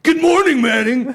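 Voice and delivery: high, loud mock yell; misread as yelling. Shown as a demonstration. Reader misreading a good morning text, yelled. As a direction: shout the greeting as if all caps. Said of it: "I could literally read it like that".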